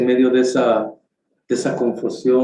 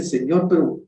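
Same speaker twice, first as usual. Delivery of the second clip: protesting complaint; 10 semitones higher than usual. Retold or imitated. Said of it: "le protesta".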